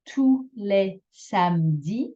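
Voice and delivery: slow syllables, DI of samedis stretched and rising; tous, les, same, then a long DI; DI held longer. Shown as a demonstration. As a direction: insist on the last syllable of samedis. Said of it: "it's on the D".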